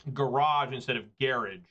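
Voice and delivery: "garage" first as guh-RAHZH, then British GARR-idge; garage both ways. Shown as a demonstration. Streamer contrasting his garage with the British one. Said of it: "I know for sure I say".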